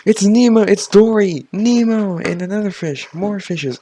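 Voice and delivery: high, loud delighted recognition; excited. Real, not acted. Player spotting fish in the game, excited high shout. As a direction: squeal out the names.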